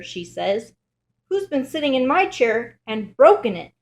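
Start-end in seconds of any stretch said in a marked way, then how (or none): 1.3-3.7 higher, louder little bear voice; upset bear cub, pitched up, punching "broken"; Baby Bear. A narrator's reading. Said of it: "says Baby Bear".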